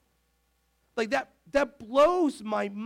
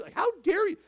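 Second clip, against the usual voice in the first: higher, indignant mock sitcom-kid sass; Stephanie Tanner; 10 semitones higher than usual. Pastor's Full House bit, higher mock indignation. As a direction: play an offended little girl. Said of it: "here's my Stephanie Tanner moment".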